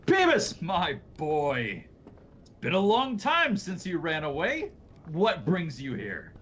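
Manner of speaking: put-on high, lilting old man's voice; jovial old scientist. Old man greets the long-gone runaway, in a high, lilting voice. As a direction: draw out the greeting, pitched high. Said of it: "and he goes".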